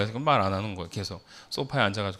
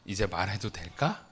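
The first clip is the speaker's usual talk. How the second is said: soft, mildly tender retold question; gently soothing; 2 semitones lower, 6 dB quieter than usual. Dad patting his crying daughter, gently asking to talk again. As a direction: ask it softly, as if comforting a child. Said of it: "그 보다듬어 주면서".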